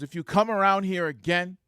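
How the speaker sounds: high, loud warning in another man's voice; retold menacing threat. Guard threatens the departing supervisor, imitated loud threat. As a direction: imitate a worked-up man threatening.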